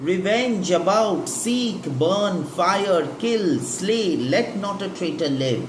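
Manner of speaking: high, loud chant of revenge; rally the crowd to kill; mob calling for revenge. Shown as a demonstration. Teacher voicing the mob crying revenge, loud.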